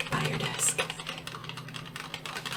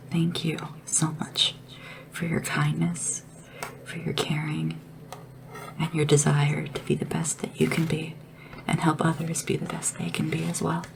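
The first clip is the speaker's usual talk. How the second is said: sincere card reading. Pretend. Reads own thank-you card aloud to ruler.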